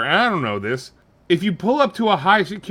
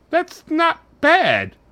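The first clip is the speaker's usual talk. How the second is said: gay robot voice; 9 semitones higher than usual. Acted. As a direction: play a robot finding itself. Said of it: "I'm a robot".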